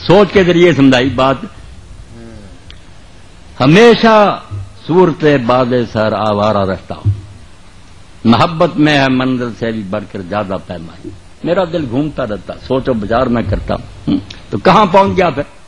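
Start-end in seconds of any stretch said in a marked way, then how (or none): 3.6-11.1 poetry recitation. Acted. Preacher reciting Iqbal to listeners, measured declamation. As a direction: declaim the couplet, pausing after the first word.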